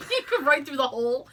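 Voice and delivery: laughing through words; words broken by laughter. Real, not acted. Laughing fit.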